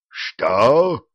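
roar. A narrator's reading. The giant roars at the news about the owl. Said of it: "взревел гигант".

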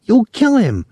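put-on high, alarmed girl's cry; shrill call. A narrator's reading. Girl pleading with soldier to hold back, shrill. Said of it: "the girl called shrilly".

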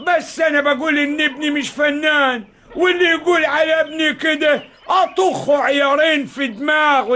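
threatening the guest over his son's honor, angry; angry threat. Acted. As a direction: bark the threat in defence of his son. Angry father defends son.

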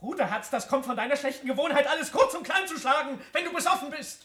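laughing, loud mockery; mocking laugh. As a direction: laugh at his drunkenness. Mocking scolding of drunk.

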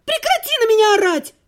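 high, loud shriek; scream. A narrator's reading. Heroine screaming at her ex to stop yelling, loud scream. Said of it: "Так закричала я".

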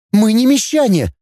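put-on a touch of girlish fury; furious girl Dana. A narrator's reading. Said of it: "разъярилась Дана". (девушка в ярости, выше, сдержанно)

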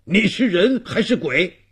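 high, startled challenge to an intruder; startled questioning. Acted. Old man confronts sudden ghost. (受惊地高声质问)

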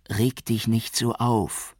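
calm him down with concern; worried. A narrator's reading. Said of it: "sagte sie besorgt zu Barudi".

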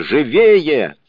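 подгоняющий выкрик, высоко и громко; кричи «живее!» на бегу, подгоняя; громкий крик. A narrator's reading. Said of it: "кричал". (громкий крик погони)

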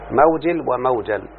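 موجل first with i, then موجل with a, slowly; two vowelings. Shown as a demonstration. Teacher contrasting both forms for the student, slowly. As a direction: say موجل as mawjil, then موجل as mawjal. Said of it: "والأكثرون بالكسر موجل".

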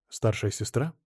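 ordinary delivery

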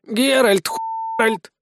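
thin, high squeak from a body. A narrator's reading. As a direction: squeak it out, lightly. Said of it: "послышался писк от тела". (слабый высокий писк)

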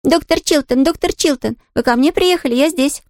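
high, bright calling out of a window; joyful call. Acted. Girl calls out joyfully to the arriving doctor. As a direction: call happily to the doctor below. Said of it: "радостно крикнула".

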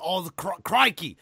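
mock Australian accent, building to a loud cry; hammed-up Australian croc-hunter accent; Steve Irwin. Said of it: "Steve Irwin?".

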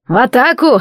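громкий боевой приказ; выкрикни команду; команда. Acted. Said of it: "скомандовал он". (громкий приказ)

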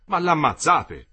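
loud, slow horrified cry; horrified exclamation. A narrator's reading. Parigi sees the lynching, loud horrified cry. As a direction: scream it in horror. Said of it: "esclamò Parigi".

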